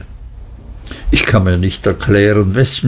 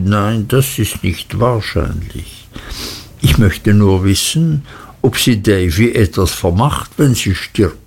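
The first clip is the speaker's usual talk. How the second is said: ordinary delivery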